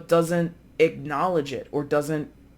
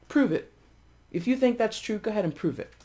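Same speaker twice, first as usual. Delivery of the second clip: taunting, pitch up on prove it; sassy; 5 semitones higher, faster than usual. Retold or imitated. Guilty person taunting the accuser, sassy. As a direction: egg them on with sass. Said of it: "very sassy this person could be".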